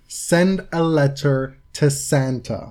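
slow, drawn-out closing line; dramatic reading. Acted. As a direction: spell out the punchline slowly and deliberately. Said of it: "give you a dramatic reading".

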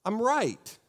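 smug self-righteous. Retold or imitated. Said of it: "we say things like".

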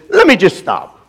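imitated English accent. Preacher quoting an English revivalist halting his sermon, English accent. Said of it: "in his English accent".

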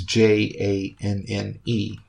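J A N N E spelled letter by letter; name each letter J A N N E in turn; spelling it out. Shown as a demonstration. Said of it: "His second name is".

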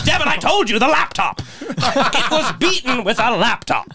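high, laughing mock rant; playful imitation of a freak-out. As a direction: retell the outburst half laughing. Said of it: "starts freaking out and goes".

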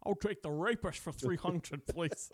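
host mocks Trebek as a hammy Connery impression; Sean Connery. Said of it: "Sean Connery talk lately".

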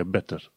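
"better" with a true T in the middle; clear T. Shown as a demonstration. Teacher reading the example "better" with clear T. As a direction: sound the T in "better". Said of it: "T-ul se pronunță ca T".

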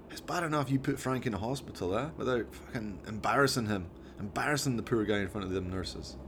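lightly voiced Scottish mate telling off his chimp; a hint of a Scottish lad; Jones, exasperated driver.

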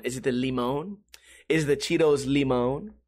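limon said "lee-MOAN", stressed on the second syllable; Spanish-style limon. Shown as a demonstration. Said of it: "a bag of Cheetos without going".

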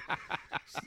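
soft, voiceless mock laughing fit; imitated hysterical laugh. Dad mimics Riley laughing hysterically, breathless soft laugh. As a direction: wheeze with silent helpless laughter. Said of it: "she's laughing hysterically".

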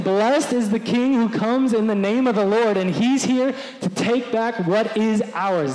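loud chant of a pumped-up crowd; rallying cry. Retold or imitated. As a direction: shout it like a war cry. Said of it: "And they're saying".

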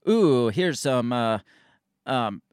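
put-on slow, half-hearted Russian spy accent; badly faked Russian accent, drawn out; a hint of a hammy Russian accent; terrible Russian accent. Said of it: "I have a terrible Russian accent".

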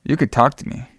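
soft, halting imitation of a creep; creepy. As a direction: play the creep, softly with unsettling pauses. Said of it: "Ooh, what a creep".

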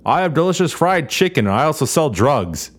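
high, cheery pitchman; mock villain. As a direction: sound like a friendly salesman. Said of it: "Imperial guy who says".

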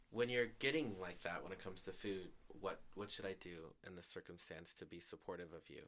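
retold calm question, softening toward the end. Speaker asking the ex how to be supportive, calm. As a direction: ask it evenly and supportively. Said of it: "I said to my ex in a calm voice".

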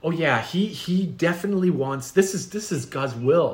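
lightly voiced macho gym bro; a hint of a vain, pious gym bro; dim gym bro. Acted skit as Ben.

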